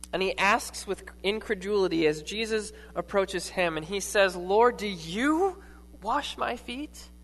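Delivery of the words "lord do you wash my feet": "you" leaned on, slow and drawn out; stress on you. Retold or imitated. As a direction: ask it slowly, leaning on "you". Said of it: "The emphasis is not on my feet".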